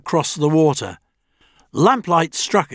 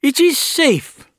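put-on high, loud stern old man; old doctor voice; 11 semitones higher, 3 dB louder than usual. A narrator's reading. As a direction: order it calmly like an elder. Doctor commands.

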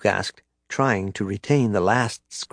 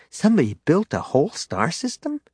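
put-on child voice; 7 semitones higher than usual. A narrator's reading. Child Jacen voiced by narrator.

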